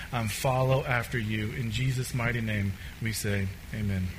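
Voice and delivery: quiet, measured congregational prayer. Real, not acted. Pastor asking the Lord to stir hearts, quiet prayer. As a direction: pray softly and evenly, winding down to amen.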